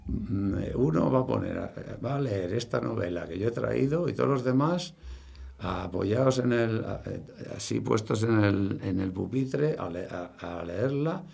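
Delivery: a hint of a teacher announcing an activity; lightly voiced teacher. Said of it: "dedicaba un rato que decía".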